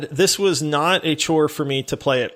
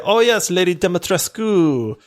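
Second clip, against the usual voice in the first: put-on light Romanian accent, Dimitrescu with the final U sounded; hint of a Romanian accent saying Dimitrescu; 3 semitones higher than usual. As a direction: imitate a Romanian expert saying Dimitrescu with a clear U at the end. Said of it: "she said it with a heavy accent".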